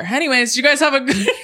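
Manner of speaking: high, giggling sign-off; cracking up mid-sentence; laughing through line. Retold or imitated. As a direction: breaks into high laughter before ride. Cast member cheery sign-off.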